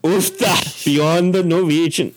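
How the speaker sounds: high, hammed-up fake Norwegian accent; terrible Norwegian accent. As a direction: ham up a bad Norwegian accent, pitched high. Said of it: "that was a terrible accent".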